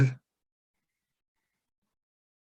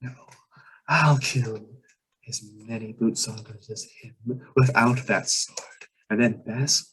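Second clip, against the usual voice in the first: jealous muttering vampire; 2 semitones higher than usual. Acted. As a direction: grumble it like a slighted rival.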